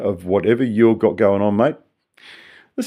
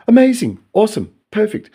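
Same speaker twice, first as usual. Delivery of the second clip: much higher, louder hammed-up gushing; mock rapture; 11 semitones higher, 4 dB louder than usual. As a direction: squeal the praise in fake ecstasy. Mock ecstasy returns.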